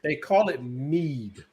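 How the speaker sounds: slow, a little tipsy. Real, not acted. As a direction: talk a bit slowly, tipsy. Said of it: "low-key drunk".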